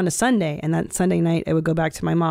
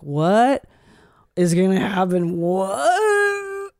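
mock her younger self's panic reading the book; panicked kid; much slower than usual. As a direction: pitch jumping up into a scared squeal.

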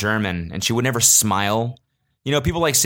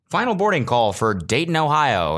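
airport announcement; 6 semitones higher than usual. Retold or imitated. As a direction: boom it like a gate call. Imitating American announcement.

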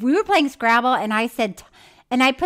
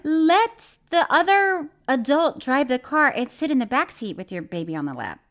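words mashed and unclear; garbled mumbling; 3 semitones higher than usual. Real, not acted. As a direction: mumble it through a laugh. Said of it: "hard to understand you when you talk like that".

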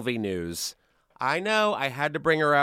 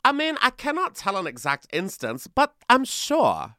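imitating Anna; 4 semitones higher than usual. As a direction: stretch out "but I'm sure" with a shrug. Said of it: "she said".

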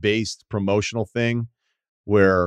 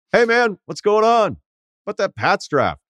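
mock small talk, way up in pitch; hammed-up bouncer chat; 12 semitones higher, 3 dB louder than usual. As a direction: greet the bouncer like an old buddy. Acting out chatting up a bouncer.

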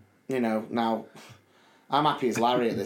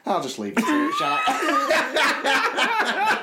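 mock waiter; much slower than usual. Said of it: "he went".

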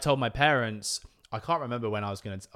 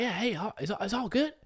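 impression of dad; 12 semitones higher than usual. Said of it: "Hey, just probably like".

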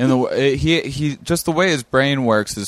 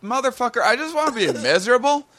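higher, half-crying complaint; mock whiny snap; 4 semitones higher than usual. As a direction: whine that you just want misery. Snapping at joking friend, in pain.

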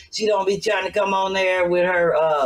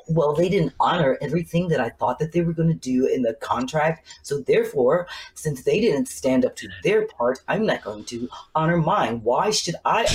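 a hint of a formal, lower business tone; Kanye's Gap voice; 4 semitones lower than usual. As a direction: imitate a polished corporate statement, lightly. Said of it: "that's his Gap voice".

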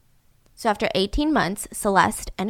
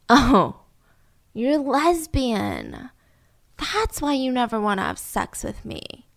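slow, unhurried, softening deadpan; calm; 4 dB quieter, slower than usual. Retold or imitated. Husband standing over the bed, calmly concluding. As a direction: imitate an eerily composed realization. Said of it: "he just calmly says".

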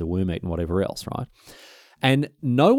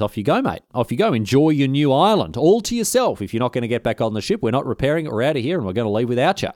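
mocking send-off; 3 semitones higher than usual. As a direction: taunt him lightly as you sail off. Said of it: "and he says".

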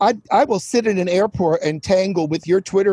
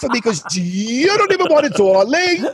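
lightly put-on sassy drag character. Drag guest scolding late host, lightly put-on sassy character. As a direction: draw out each "darling" in mock disdain. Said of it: "Is this your new character?".

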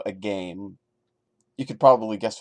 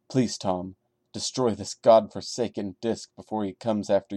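softer, hushed reading of a desperate plea; frightened letter; 3 semitones lower, 4 dB quieter than usual. Acted. A terrified friend writing to Tom, soft and pleading. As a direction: read it like a scared friend begging for help.

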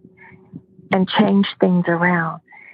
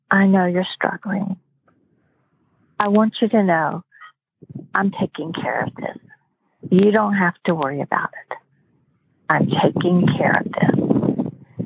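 calm. Retold or imitated. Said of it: "she just said calmly".

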